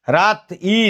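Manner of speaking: রাত ই split, with the final ই said as its own vowel; sound-by-sound breakdown. Shown as a demonstration. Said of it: "তয়ের পরে রস্যইকার".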